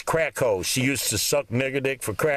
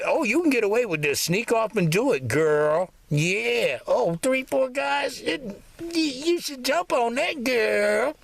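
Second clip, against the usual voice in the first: put-on much higher, coaxing girlfriend voice; hammed-up sly encouragement, quick and high; mock tempting friend; 9 semitones higher than usual. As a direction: egg her on like a sly gossip.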